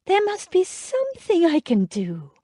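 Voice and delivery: desperate plea; in despair. A narrator's reading. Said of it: "in despair".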